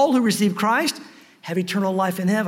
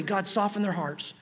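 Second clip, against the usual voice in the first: softer, dropped-down pleading to God; quiet prayer; 2 semitones lower, 8 dB quieter than usual. Acted. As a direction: pray it softly under your breath. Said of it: "just pray".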